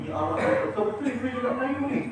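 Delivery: surprised aside. Retold or imitated. Tengok tadi.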